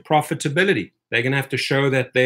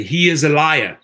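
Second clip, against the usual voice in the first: flat unsupported accusation, a little louder; bare accusation; 2 semitones higher, 4 dB louder than usual. Shown as a demonstration. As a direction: toss out the charge with nothing behind it. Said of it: "I can say".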